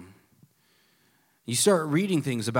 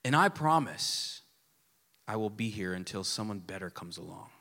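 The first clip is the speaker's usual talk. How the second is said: softer mock vow, dropping away; 8 semitones lower, 6 dB quieter than usual. Pastor mocking a faithless vow, soft and low. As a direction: let the promise sink to a murmur. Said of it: "the vows went something like this".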